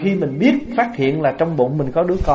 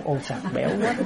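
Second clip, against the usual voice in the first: softer, laughing mock praise; amused exclamation; 7 dB quieter, much faster than usual. Diner praising the soup unawares, amused exclamation. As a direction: slip into a chuckle while imitating a pleased eater.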